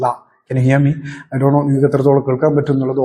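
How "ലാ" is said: a clear ലാ, tongue on the palate; ലാ said slowly with air bounced off the tongue; demo la sound. Shown as a demonstration. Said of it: "ലാ എന്ന് പറയുന്ന ശബ്ദം കേൾക്കും". (ലാ വ്യക്തമായി ഉച്ചരിക്കുന്നു)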